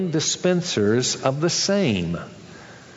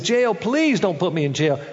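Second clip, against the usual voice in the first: high startled plea for mercy; pleading; 4 semitones higher than usual. Acted. Debtor begging the master with a high frightened plea. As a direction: beg not to be jailed.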